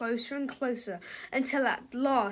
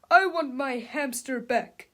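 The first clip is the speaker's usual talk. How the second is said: slow whiny grown man; Mister Krupp; 4 dB louder, slower than usual. Acted. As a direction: demand the hamster back. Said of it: "said Mister Krupp".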